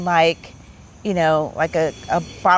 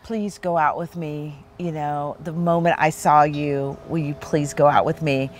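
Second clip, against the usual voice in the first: retold plea; 4 semitones lower than usual. Acts out suitor pleading on knee.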